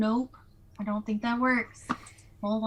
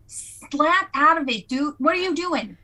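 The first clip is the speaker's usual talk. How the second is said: exasperated scolding; 4 semitones higher, 3 dB louder than usual. Acted. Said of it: "mostly like a, like".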